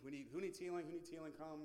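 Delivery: loud imitated call to a crowd. Helpers calling the sick to come, loud urgent call. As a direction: call out loudly, urging people forward.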